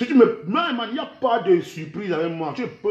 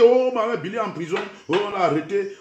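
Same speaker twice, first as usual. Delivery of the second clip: mock gossip; 2 semitones higher than usual. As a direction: mimic excited rumour-mongers. Mimicking others' gossip about his arrest.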